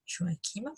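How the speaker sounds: "Joachim" as jo-a-KIM, with a K sound; final M sounded in "Joachim", K in the middle; modern pronunciation. Shown as a demonstration. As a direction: say "Joachim" with a hard K. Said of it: "on dit Joachim".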